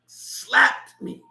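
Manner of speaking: breathy whispered aside. Retold or imitated. Stunned retelling of the slap.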